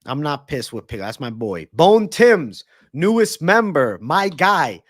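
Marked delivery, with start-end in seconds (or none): 1.7-4.8 loud, high, stretched-out name call; hyped shout-out. Real, not acted. Streamer greeting his newest member, hyped shout-out. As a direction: announce them big, drawing out the words.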